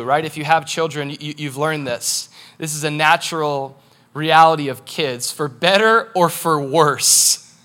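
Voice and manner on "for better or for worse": BETTER and WORSE drawn out slowly; slow, measured stress on better and worse; deliberate emphasis. Real, not acted. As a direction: weigh each word, stretching "better" and "worse". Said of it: "Let me say that again".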